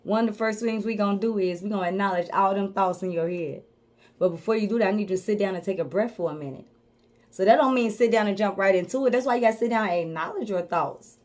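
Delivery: soft and low, unhurried guidance; soothing coach voice. Acted. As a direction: talk them gently into sitting still. Coach calming client to sit.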